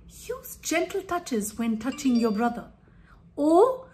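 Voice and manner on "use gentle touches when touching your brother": softer, calm guiding request; gentle suggestion. Shown as a demonstration. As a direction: steer a child kindly. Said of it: "try using".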